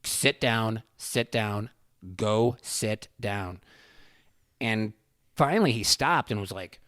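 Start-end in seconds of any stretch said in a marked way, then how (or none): 0.0-3.6 even repeats, slowing at the end; dead calm. Retold or imitated. Dad repeating himself to a raging policeman, dead calm. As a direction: repeat it patiently, without heat. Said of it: "dead calm".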